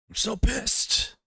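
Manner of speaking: very high, drawn-out mock whine; stretched falsetto mockery of a tantrum; mocking imitation. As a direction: mimic an angry ranter in squeaky slow falsetto. Repeats mimicry of the ranting clip.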